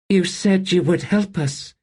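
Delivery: put-on high, frightened girl's plea; cowering child. A narrator's reading. Kettle to the towering lord, high frightened plea. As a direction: shrink back and plead with him. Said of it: "cowering beneath his gaze".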